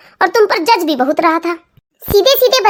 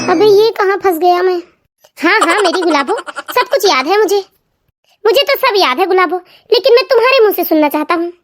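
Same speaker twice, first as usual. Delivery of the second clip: lightly lowered, sheepish husband voice; bluffing husband; 2 semitones lower than usual. Acted. Husband bluffing to wife that he remembers. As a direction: cover up that you forgot.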